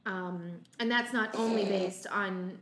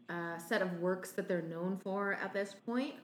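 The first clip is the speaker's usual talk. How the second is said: talking through a mouthful; chewing while talking; 4 dB quieter than usual. Real, not acted. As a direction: speak around a bite of food. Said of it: "I'm also eating my breakfast while we're doing this".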